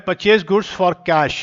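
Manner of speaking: slow, spelled-out dictation pace. Shown as a demonstration. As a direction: read the entry out word by word. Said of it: "dictating entry slowly". (धीमे-धीमे बोलकर लिखवाना)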